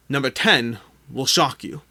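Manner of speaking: slow, teasing clickbait hype; clickbait video narrator. Shown as a demonstration. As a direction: dangle it like a clickbait headline. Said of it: "clickbait aside".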